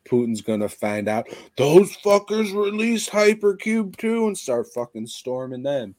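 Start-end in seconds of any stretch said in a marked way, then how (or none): 1.6-5.9 put-on high, loud Russian accent. Putin finding out about the film, outraged Russian accent. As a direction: put on an indignant Russian leader's accent, pitched way up. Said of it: "It's pretty good Russian accent".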